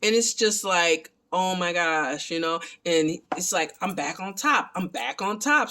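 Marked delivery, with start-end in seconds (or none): 3.8-5.7 retold excitement, pitch lifting on the repeat; mildly excited. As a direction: lightly imitate someone thrilled to be back.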